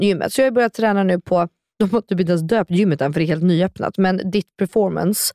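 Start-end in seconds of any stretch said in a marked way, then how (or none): 4.3-5.3 English accent. Real, not acted. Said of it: "varför pratar jag typ engelska?".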